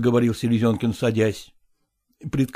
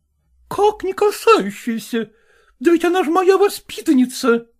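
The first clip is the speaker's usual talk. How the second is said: indignant madam. A narrator's reading. Zoya challenging Selezenkin, high and indignant. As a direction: demand it like an outraged choir mistress.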